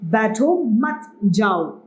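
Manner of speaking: slow बैठो मत, then a separate जाओ; pause before जाओ. Shown as a demonstration. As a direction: space out बैठो, मत, जाओ slowly. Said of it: "इसका मतलब है जाने को कह रहे हैं". (धीरे, जाओ से पहले विराम)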